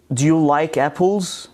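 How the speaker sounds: "apples" lifted at the end of the question; rising intonation. Shown as a demonstration. Teacher gives another yes-no example, rising intonation. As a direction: let the pitch go up on "apples". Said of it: "So your intonation rises".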